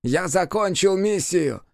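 very high, very slow screech; a piercing, drawn-out demon screech; demon shrieking. A narrator's reading. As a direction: shriek the triumph. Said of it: "верещал он".

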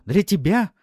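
high, loud, shouted question; furious challenge. A narrator's reading. Wife challenging her husband's motives, furious. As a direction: demand it at full voice.

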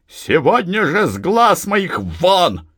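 high, slow furious command; shouted order. A narrator's reading. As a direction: throw her out with a cry. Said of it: "крикнула". (крикнула гневно)

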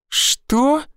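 a high, shocked «Что?»; a woman who cannot believe what she heard; stunned. A narrator's reading. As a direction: gasp out the word in disbelief. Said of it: "ошарашенно посмотрела на меня Ферзь".

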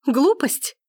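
the second "Глупость?" climbs into a shriek of outrage; outraged shout. A narrator's reading. Gabrielle, escalating, shouts Forster's word back at him. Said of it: "крикнула она".

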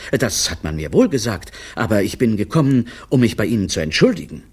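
hurried, nervous-speaker patter; a touch of gabbled apology. Acted. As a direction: pick up speed as you plead. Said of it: "seine Stimme wurde immer schneller".

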